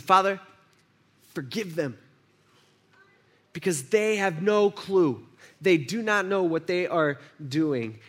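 slow, gentle plea for mercy; right forgiving prayer. Acted. Preacher gives the true prayer, slow and gentle. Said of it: "He says".

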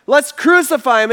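loud, high, slow demand; insistent crowd. Retold or imitated. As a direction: hammer each word out as an angry crowd. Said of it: "And they all answered".

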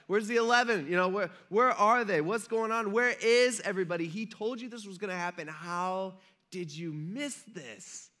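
hammed-up baffled disbelief; mock incredulity. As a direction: demand to know how they missed it. Acts out angels' incredulous questions.

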